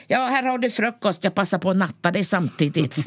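lightly voiced northern nurse, chatty; a hint of a rural nurse reading her horoscope; Tornedalen nurse. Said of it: "hon kom från början och sa så här".

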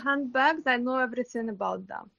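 a hint of a Russian lady gushing over handbags; Russian lady impression. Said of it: "That's my Russian lady impression".

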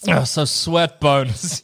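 character quote. Acted. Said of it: "being like".

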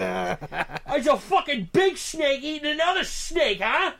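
high-pitched excited doofus impression; hyped-up guy. Doofus showing a stranger a snake picture, hyped. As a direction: push it on them, all hyped up. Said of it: "he was so hyped".

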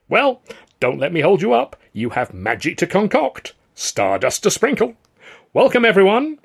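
high, loud, theatrical flourish; effusive welcome. A narrator's reading. Manager sends company to work, effusive. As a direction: sing it out grandly, building to the last cry.

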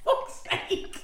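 loud, high, slow mock protest; mock outraged shout. Host shouting at her sister in mock outrage. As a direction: bellow it like an indignant host.

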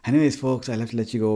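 lightly hammed-up Irish accent, telling sporting yarns; put-on Irish accent. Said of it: "I can't continue to do this accent".

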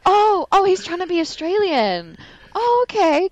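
high, loud, laughing through the words; laughing realization. Retold or imitated. Friend laughing while retelling watching a film. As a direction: giggle out the sudden realization. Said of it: "and then I was like".

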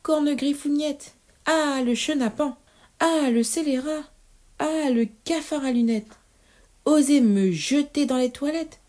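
high-pitched, indignant witch tirade; raging witch. A narrator's reading. Witch furious at being thrown in the toilet, indignant rant. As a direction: rant as a pompous, outraged witch.

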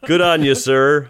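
imitated Chicago cop accent. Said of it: "what's a fucking Chicago accent?".

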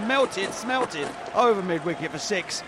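commentary rising to a six; cricket commentator. Acted. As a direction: call the big hit live.

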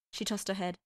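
ordinary delivery

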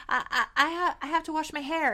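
stammering, mildly befuddled imitation; disoriented. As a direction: stumble over the first words, as if muddled. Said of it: "she's super disoriented".

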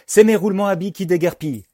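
high, loud, frantic wail; horrified. A narrator's reading. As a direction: cry out as treasures escape. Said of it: "s'épouvante Jean-Hector".

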